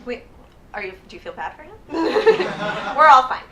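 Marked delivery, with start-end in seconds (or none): 1.9-2.9 amused laugh at the crowd. Real, not acted. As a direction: laugh off their sympathy.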